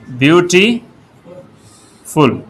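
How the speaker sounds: ब्यूटीफुल stretched slowly syllable by syllable; ब्यूटीफुल spelled out slowly for students. Shown as a demonstration. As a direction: draw out ब्यूटीफुल so each of its three syllables is heard. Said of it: "अब इसमें तीन syllable हैं".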